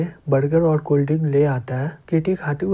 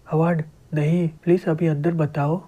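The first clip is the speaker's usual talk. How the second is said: ordinary delivery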